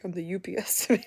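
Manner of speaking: put-on laughing through the kid's line; laughing kid quote. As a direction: giggle it out proudly. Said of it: "just was like".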